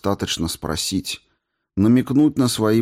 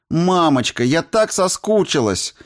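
much higher, bright squeal; squealing with joy; 10 semitones higher than usual. A narrator's reading. Polina throws herself on her mother, squealing. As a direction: squeal it as you run to her. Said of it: "с визгом бросилась на шею матери".

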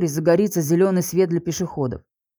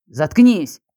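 a sharp, louder shut up; angry snap; 6 dB louder than usual. Acted. The accused husband silences her with a loud angry snap. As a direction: cut her off hard and loud.

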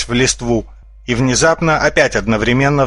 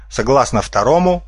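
plain reading voice

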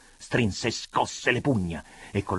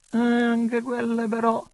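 higher-pitched, pointed bitter objection; bitter, raised-voice reproach; bitter remark; 12 semitones higher, 3 dB louder than usual. A narrator's reading. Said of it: "gli fece osservare amaramente monsignore".

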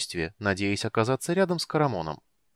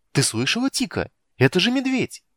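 much higher, louder delighted yell; joyful shout; 11 semitones higher, 6 dB louder than usual. A narrator's reading. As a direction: shout it with glee at a bear. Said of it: "с радостными воплями".

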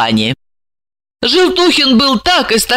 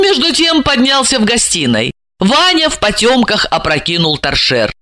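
ordinary delivery

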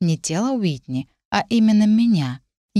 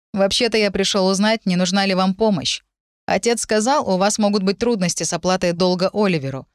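slightly raised, earnest lad offering help; a hint of an awkward, helpful youth; lightly voiced shy young man; 2 semitones higher than usual. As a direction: lightly play a bashful young suitor.

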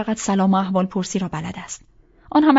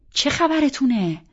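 exasperated demand; 5 semitones higher, slower than usual. Acted. Bursts into the room.

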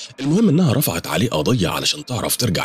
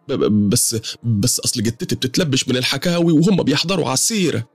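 higher woman's voice, stuttering on the first word; nervous, stammering, pitched-up woman; 7 semitones higher than usual. Acted. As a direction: trip over the start nervously, then rush on. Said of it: "بدأت تتهته تاني".

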